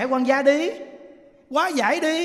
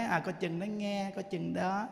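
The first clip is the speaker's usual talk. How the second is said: teasing warning; 9 dB quieter, slower than usual. Retold or imitated. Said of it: "có những người ta giỡn".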